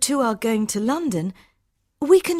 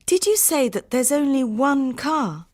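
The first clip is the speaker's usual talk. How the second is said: high-pitched, urgent checking question; anxious query. Acted. Harminder asks about the only car, anxious. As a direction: check it in disbelief.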